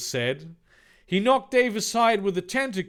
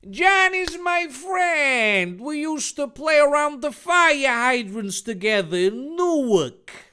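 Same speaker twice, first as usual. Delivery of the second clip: John's angry high voice; 10 semitones higher, 7 dB louder than usual. Acted. John screaming at Terezi for hurting his friend, high and furious. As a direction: belt it out high like a wounded friend.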